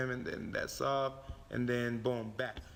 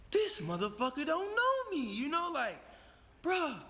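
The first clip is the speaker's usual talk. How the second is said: inner voice; 11 semitones higher than usual. Retold or imitated. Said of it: "I'm like".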